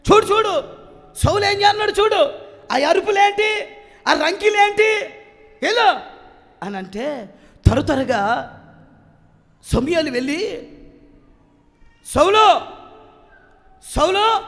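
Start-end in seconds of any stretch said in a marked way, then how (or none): 0.1-6.0 God pointing at Saul in alarm, urgent and high. Acted. 12.1-14.4 loud call of a name. Acted. Samuel calling out to Saul.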